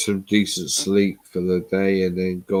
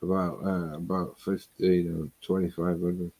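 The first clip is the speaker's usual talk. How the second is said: slurring words, tablets kicking in; thick-tongued, words running together; slurred speech. Real, not acted. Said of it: "You're slurring your words".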